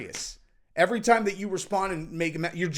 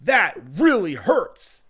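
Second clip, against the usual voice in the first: mock hurt; 3 dB louder, much slower than usual. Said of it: "he's just like".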